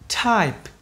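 "Type" with a released P at the end; final sound kept. Shown as a demonstration. Teacher reminding about endings, released P in "Type". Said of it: "Nhớ cái âm cuối này".

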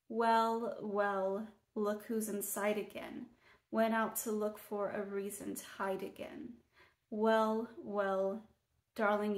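measured, even poetry reading with pauses between lines; poem recitation. Acted. Poet reads their most popular piece to viewers, measured poem recitation. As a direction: read it as verse, line by line, letting each line settle.

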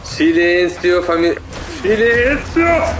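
tense slow shushing; drawn-out hush. Real, not acted. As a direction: stretch each silenzio slowly. Hiding from monster in game.

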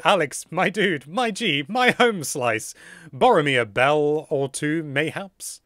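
lightly hammed-up slang greeting; a hint of playful swagger, stretched; read-out donor message. Streamer reading a donor's cheeky request, mock swagger. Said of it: "Patrick Monahan has said".

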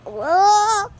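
cracking voice jumping high. Real, not acted. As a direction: voice cracks on the whoa. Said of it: "sorry if you voice crack".

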